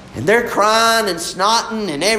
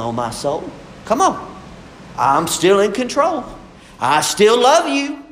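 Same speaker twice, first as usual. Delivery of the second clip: voice of God. Retold or imitated. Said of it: "he says".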